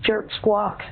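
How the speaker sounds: string of spoken bird calls in short bursts; mock parrot chatter. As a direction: squawk and chirp the words like a pretend parakeet. Caller spouts bird noises at agent.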